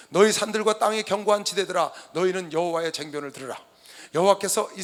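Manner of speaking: loud, declaimed scripture; formal, projected Bible reading. Acted. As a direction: proclaim the verse like a summons. Reads scripture aloud to congregation.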